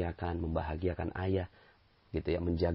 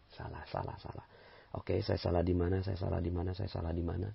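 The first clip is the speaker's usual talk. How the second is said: whispered self-blame; 5 dB quieter than usual. Retold or imitated. Wife voiced, whispered self-reproach.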